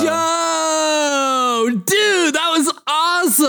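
amazed, high-pitched hype; Mikey. Acted. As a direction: stretch out the opening, awestruck and high. Mikey amazed by perfect shot.

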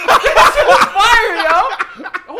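loud, high, laughing mock cry of delight; hammed-up lover's praise. Joking to the fellas as if to a crying partner, loud hammed-up delight. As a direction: whoop it at a pretend lover, stretching the end.

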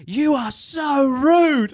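high, slow, drawn-out mock outrage; mock indignant customer. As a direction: imitate the huffy customer stretching every word. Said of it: "she was like".

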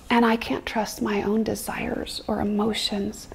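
hushed prayer to God; whispered prayer. Retold or imitated. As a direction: pray it half-whispered, humbly. Retold prayer of surrender.

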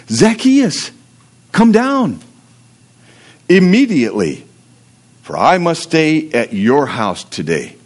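measured Bible reading voice; scripture reading. Acted. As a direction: read the passage like a preacher. Reads scripture aloud.

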